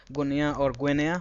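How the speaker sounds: first Guinea as goo-nee-ya, then Guinea as gweh-nee-ya; contrasting pronunciations. Shown as a demonstration. Teacher helping students remember both ways to say Guinea. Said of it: "you can remember that".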